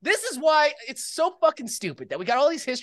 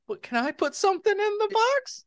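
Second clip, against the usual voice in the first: put-on whiny kid brother; 10 semitones higher than usual. Little brother voiced in skit.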